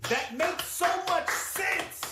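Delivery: sarcastic follower. Acted. Follower mocking guru logic.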